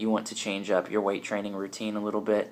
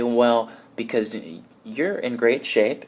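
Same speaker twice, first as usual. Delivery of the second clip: a lightly voiced envious gym-goer, slow; slow, grudging compliment; 2 semitones higher, 5 dB louder, slower than usual. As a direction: drag out the compliment, a bit jealous. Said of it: "They say".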